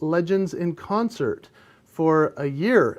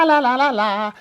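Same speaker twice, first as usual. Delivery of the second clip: English accent; 7 semitones higher, 5 dB louder than usual. Shown as a demonstration. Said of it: "so I have to have an accent".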